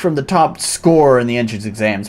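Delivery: a lightly voiced barking commander addressing recruits; gruff drill commander. Commander welcoming new recruits, lightly gruff. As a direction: play it as a bossy cat commander.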